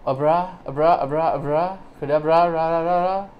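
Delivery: lightly chanted mock abracadabra; magician's incantation. Vlogger teasing a tool trick as a magician's abracadabra. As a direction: build it up like a stage magician. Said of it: "I tried to do an abracadabra".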